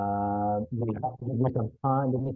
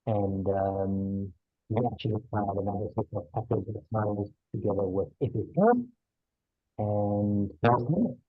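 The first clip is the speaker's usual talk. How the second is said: muffled voice on a bad mic. Real, not acted. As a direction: speak through a muffled headset. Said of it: "The sound is extremely muffled".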